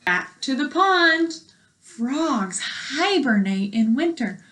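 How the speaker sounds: clear, even read-aloud voice for a class; reading to children. Acted. Teacher reading a frog book to her class, clear read-aloud.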